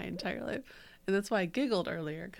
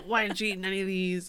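put-on Chicago accent; 5 dB louder, faster than usual. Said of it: "He's like".

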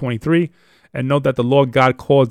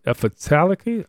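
questioning, softer try at "emphatically"; unsure of pronunciation; 3 semitones higher, 5 dB quieter than usual. Real, not acted. Teacher doubting how to say a word, unsure. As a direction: say "emphatically" tentatively, with a rising questioning end. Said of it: "I don't know how to say that".

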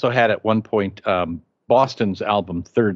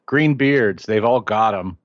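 sleep-talking wife. Retold or imitated. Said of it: "hear this voice going".

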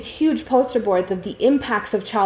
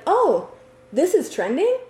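much higher, sing-song mocking voice of a fake supporter; mocking bandwagon friend; 10 semitones higher than usual. Mocking former friends jumping on a trend, high sing-song mockery. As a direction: parody the friends who only cared once it was trending. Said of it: "the audacity six months later to be like".

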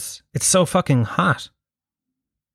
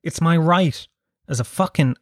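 mock whiny complaint. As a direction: whine it like a spoilt man. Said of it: "do you know what I say to them".

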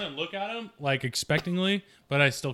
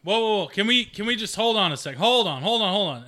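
alarmed pleading; 6 semitones higher, 5 dB louder than usual. Real, not acted. Player panics, stops the action.

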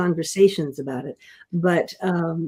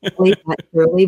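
laughing correction; 2 semitones higher, 6 dB louder than usual. Retold or imitated.

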